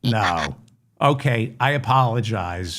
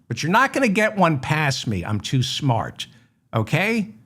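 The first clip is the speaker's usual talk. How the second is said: mock indignant; 4 semitones higher than usual. Mock outrage at forged audio.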